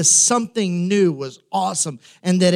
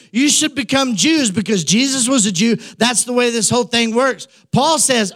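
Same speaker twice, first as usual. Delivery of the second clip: fired-up quote; 5 semitones higher than usual. Retold or imitated. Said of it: "He says".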